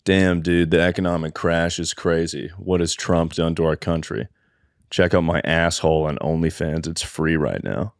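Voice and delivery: low, subdued mock commenter; Angelica's deadpan reply. Imitating a woman's reply to economic news, low deadpan. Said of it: "just Angelica hitting that with".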